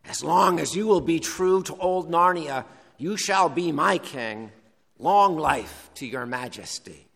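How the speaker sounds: lightly voiced talking badger. Badger addresses Caspian directly, in a light badger voice. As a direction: pledge loyalty as a mildly voiced badger. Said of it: "gonna get my badger voice now".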